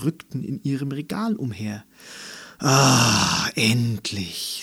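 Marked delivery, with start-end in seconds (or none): 2.6-4.6 a loud sighing "Ah", then "endlich" let out in relief; a talking book's loud relieved sigh. A narrator's reading. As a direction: breathe out "Ah, endlich" as if freed at last. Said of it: "seufzte ihr Drei-Fragezeichen-Buch".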